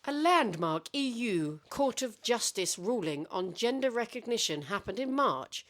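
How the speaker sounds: mock newsreader, high and formal. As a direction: read it like a TV anchor. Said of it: "This is my newsreader voice".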